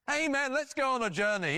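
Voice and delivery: high, over-eager enthusiasm; mock exuberance. Imagined Abraham rallying others for a journey, mock-excited. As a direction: parody a keen believer, pitched high. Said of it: "jumping up and down and saying".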